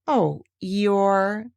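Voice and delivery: sympathise gently with the sad donkey; sorry. Acted. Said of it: "feeling very sorry already".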